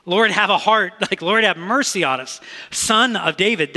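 loud, high imitated plea. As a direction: call out over a crowd for mercy. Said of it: "the blind men cried out all the more".

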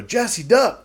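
high-pitched mock warning call; retold warning. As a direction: lightly act out an urgent heads-up.

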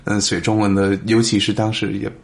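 Mandarin with a foreign accent; careful non-native Mandarin; foreigner speaking mandarin. Real, not acted. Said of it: "因为我听过很多老外讲中文，".

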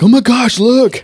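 high, loud mock gasp; mock gullible poster. Mocking a Facebook user falling for satire, high and loud. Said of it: "Someone will post that to Facebook".

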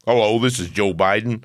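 mock elderly American president; hammed-up American politician impression; Joe Biden. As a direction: put on an old American statesman's voice. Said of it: "So he says".

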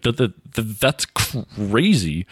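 slow stuttering bad actor; fake stutter.

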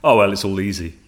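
lightly voiced glib populist, brushing it off; a hint of a breezy politician making it sound easy; mock populist. Podcast guest mocks populists with a breezy, dismissive voice. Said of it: "some populist like, Johnson or Farage".

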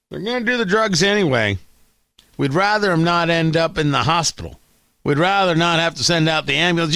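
a hint of a mock New York character; put-on New Yorker. Host mocking the poster makers' argument, put-on New York voice. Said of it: "I don't know why they sound like this in New York".

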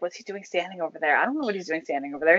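fast and soft, muttered aside; puzzled murmur. Retold or imitated. Two men whispering about the kid across the room, fast and hushed. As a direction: rattle it off under your breath, baffled.

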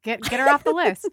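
loud, firm order; insistent demand. Retold or imitated. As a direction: get her off the list, firmly. Acting bride demanding removal.

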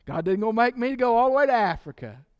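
fast, relieved, mock phew; mock relief that he need not go far; relieved sigh. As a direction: play the relieved believer let off the hook. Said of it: "You should relax when you say that".

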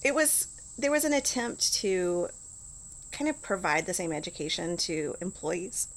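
talking through hiccups; words broken by hiccups. Real, not acted. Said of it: "Excuse me, I have the hiccups".

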